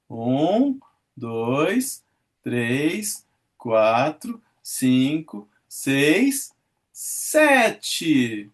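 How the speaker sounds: each count spaced, rising tune; counting syllables. Shown as a demonstration. Teacher scanning the verse for students, counting syllables. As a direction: tick off the syllables one by one. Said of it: "redondilhas maiores".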